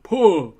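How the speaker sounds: "pa" with a firm punch. Retold or imitated. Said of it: "in Alec Baldwin's it's more like".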